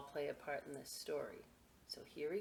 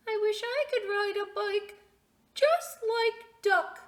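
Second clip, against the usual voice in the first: mouse's wistful thought; 9 dB louder than usual. Acted. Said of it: "what he thought was".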